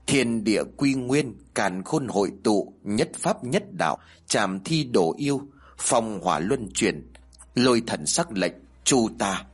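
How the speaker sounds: measured ritual chant, phrase by phrase; recited exorcism incantation with slight lift; spell incantation. A narrator's reading. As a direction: intone a spell in short, separate phrases. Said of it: "cao giọng niệm chú".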